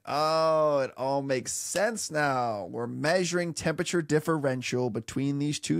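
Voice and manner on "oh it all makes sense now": mock revelation. Mock realization.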